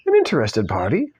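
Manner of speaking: put-on British accent, measured. Lawyer evading the defender's question, British accent. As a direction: answer coolly in an amateur British voice. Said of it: "said the man".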